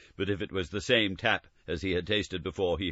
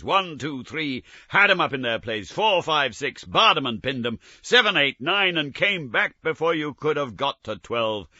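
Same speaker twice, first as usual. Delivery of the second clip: excited counting; 7 semitones higher, 6 dB louder than usual. A narrator's reading.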